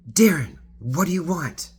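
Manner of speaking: tipsy passenger offering the driver a drink; animated offer. Retold or imitated. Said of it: "she's talking like this, very animated".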